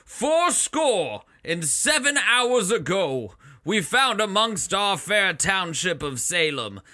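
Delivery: lightly voiced court herald; a hint of a pompous crier; town crier. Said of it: "voices that are supposed to be recognizable".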